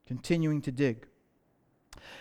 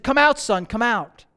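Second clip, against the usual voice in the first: raised, higher call into the rubble, fading; father calling to his trapped son, raised then easing off; 4 semitones higher, 4 dB louder than usual. Retold or imitated.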